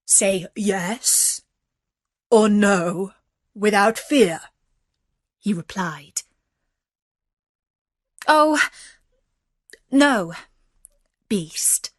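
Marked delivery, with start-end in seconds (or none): 0.1-4.4 firm beast voice, loud on the last words; gruff beast. A narrator's reading. 8.3-11.9 high, loud start dropping away on the last word; hasty, alarmed refusal. A narrator's reading. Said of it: "said Beauty hastily".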